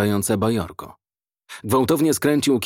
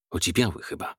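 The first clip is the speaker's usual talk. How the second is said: softer, low muttered aside; 3 semitones lower, 6 dB quieter, faster than usual. A narrator's reading. Man listening to dogs fight, muttered aside. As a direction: say it under your breath. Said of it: "szepnął".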